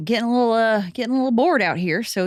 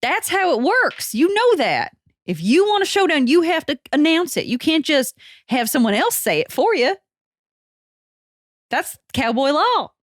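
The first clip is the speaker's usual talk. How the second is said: indignant cowboy; 5 semitones higher than usual. Acted. Cowboy insists on showdown rules.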